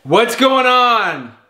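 loud, slow, startled question; alarmed at a sudden noise. Real, not acted. Hears children crying in background.

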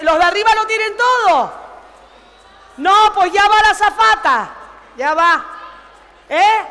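loud call to the back rows; shouting across cabin. Acted. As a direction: yell it over the passengers. (gritando por el pasillo)

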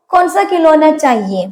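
spelled out slowly word by word; slow it right down for the learners; teacher's slow, clear demo; slow model sentence. Shown as a demonstration. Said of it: "എന്ന് വെച്ച് കഴിഞ്ഞാ ഏത് കളിപ്പാട്ടം വേണം?".

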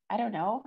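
"I don't know" ending on an upward lilt; rising intonation. A narrator's reading. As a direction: let "know" rise like a question. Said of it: "my rising intonation".

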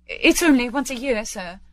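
high-pitched, meek appeal; pleading. Acted. Late Bob begs Scrooge's pardon, pleading. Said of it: "pleaded Bob".

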